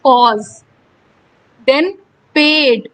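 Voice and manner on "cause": "cause" with its vowel drawn out; extended vowel. Shown as a demonstration. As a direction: glide through the long vowel in "cause". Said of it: "बहुत ज्यादा extend करना पड़ रहा है".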